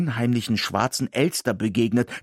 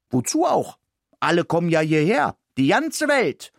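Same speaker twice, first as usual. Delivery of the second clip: much higher, excited indignant rant; huffy protest; 8 semitones higher than usual. Acted. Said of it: "sagte ich aufgebracht".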